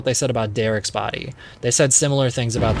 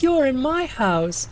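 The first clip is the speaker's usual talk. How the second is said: high mock-indignant yell; high outraged woman; 13 semitones higher, slower than usual. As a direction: shriek it like she can't believe it. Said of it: "She goes".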